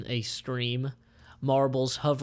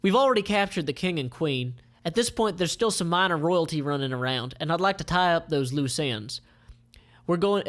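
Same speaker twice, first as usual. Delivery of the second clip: raised, louder villain officer voice; lightly voiced commander, higher; Melek's voice; 4 semitones higher, 3 dB louder than usual. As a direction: play the smug commander. Melek character voice.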